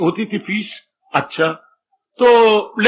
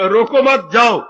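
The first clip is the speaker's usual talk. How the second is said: "रोको मत" as one unit, then "जाओ" apart; pause after मत. Acted. Father reinterprets his daughter's words, pause after मत. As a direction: break after मत, leaving जाओ on its own. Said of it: "पर बाप अर्थ लगा रहा है".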